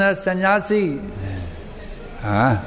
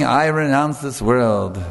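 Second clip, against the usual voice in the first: slow, drawn-out proud pronouncement, slightly lowered; mock proud declaration; 4 semitones lower, slower than usual. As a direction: imitate a self-satisfied renunciant, stretching the words. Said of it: "he's very proudly saying".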